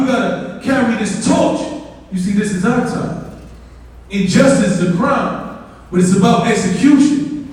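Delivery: rhythmic, emphatic spoken-word delivery; spoken-word poem. Acted. Poet recites to audience about justice, impassioned spoken word. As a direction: perform it as a driving protest poem. I'm gonna end this.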